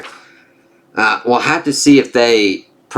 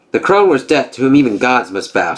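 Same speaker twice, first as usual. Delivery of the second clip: lightly voiced gods trading taunts; storybook reading of a Norse comic; comic dialogue read-aloud; 3 semitones higher than usual. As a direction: read the panels with a hint of character.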